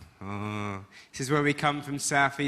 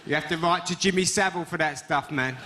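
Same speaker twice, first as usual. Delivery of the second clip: mocking schoolkids; 3 semitones higher than usual. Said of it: "We're like".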